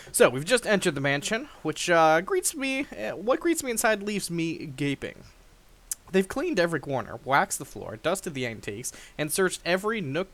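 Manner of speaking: dramatic narrator reading; story narration. Acted. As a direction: read it like a storyteller. Reads the game narration aloud.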